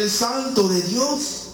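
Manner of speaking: high, slow demon voice; name him slowly from up high. Retold or imitated.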